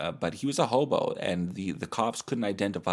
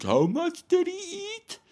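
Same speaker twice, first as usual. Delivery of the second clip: mock amazed, much higher and slow; gawping thumbnail guy; 5 dB louder than usual. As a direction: squeal it like a clickbait face. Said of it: "that's going like".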